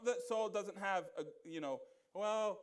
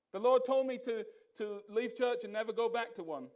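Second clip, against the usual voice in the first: mock-earnest, louder excuse voice; 5 dB louder than usual. Preacher mocking a member's excuse, mock-earnest. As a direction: parody a churchgoer's lame excuse.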